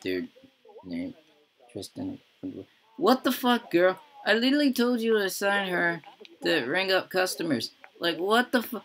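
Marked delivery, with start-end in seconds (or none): 3.0-8.8 can't believe she ignored the order; angry disbelief. Real, not acted. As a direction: pitch shoots way up, loud and outraged. Sim ignored the assigned task.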